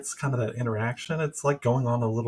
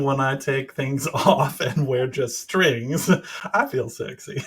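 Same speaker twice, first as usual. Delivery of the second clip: laughing; 2 semitones higher, 4 dB louder, slower than usual. Real, not acted. Laughing through a flirty boast.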